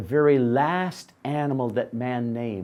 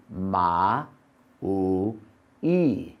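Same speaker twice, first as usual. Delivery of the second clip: animal call; 7 semitones lower, much slower than usual. Acted. Donkey's first sound, modelled.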